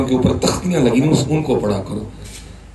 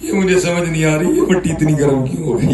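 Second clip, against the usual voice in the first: building to a raised, higher cry; rising preaching; 7 semitones higher than usual. Real, not acted. Preacher crying out to the congregation, raised and high. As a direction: press the question harder each time.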